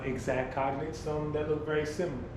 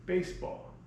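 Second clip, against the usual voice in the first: whispered; 4 semitones higher than usual. Shown as a demonstration. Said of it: "let's sound it out".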